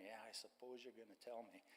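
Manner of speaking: grudging mumble, barely audible; retold mumble. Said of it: "And I mumbled again".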